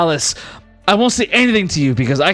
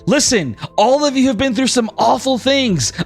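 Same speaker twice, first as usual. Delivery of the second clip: flamboyant god voice; 5 semitones higher than usual. Acted. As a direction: beckon everyone in like a showman. Rex calls party together.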